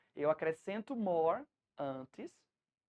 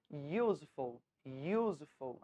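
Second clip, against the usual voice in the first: "useful" stressed on "use", falling away after; "useful" said low, leaning on the opening syllable; stress on first syllable; 4 semitones lower, slower than usual. Shown as a demonstration. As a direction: demonstrate "useful" with a long, weighted first syllable. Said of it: "a sílaba tônica tá no início".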